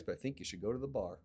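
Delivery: rattled off fast and dropping soft; quick offhand quote. Retold or imitated. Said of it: "He goes".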